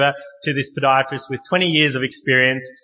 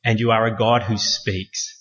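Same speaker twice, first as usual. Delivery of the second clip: prayer. Acted. Pastor opening the service in prayer to God, reverent.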